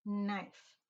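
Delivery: Knife with no K sound; modeled word. Shown as a demonstration. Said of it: "we don't hear it".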